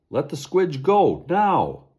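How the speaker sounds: menacing loud command; threatening. Acted. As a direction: order him menacingly. Sasquatch threatens Boone.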